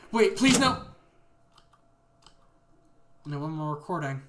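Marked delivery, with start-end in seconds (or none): 0.1-0.8 high, loud panicked begging; a panicked captive begging not to be killed; terrified plea. Acted. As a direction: beg for your life, terrified. Iteration begs before being killed.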